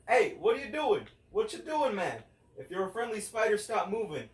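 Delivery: high, loud mock-pleading to the spider; talking to a spider. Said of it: "and I was like".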